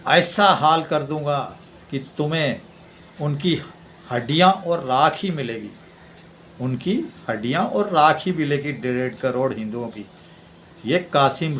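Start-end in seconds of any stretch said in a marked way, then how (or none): 0.1-10.1 imitated threat, deliberate pauses; धमकी. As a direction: quote a menacing warning with measured emphasis. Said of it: "तरह से धमकाया". (धमकाने की नकल, रुक-रुक कर)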